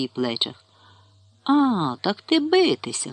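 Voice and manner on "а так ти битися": much higher indignant shout; old man's angry cry. A narrator's reading. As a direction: fire back at the attacker. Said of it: "крикнув і собі дід".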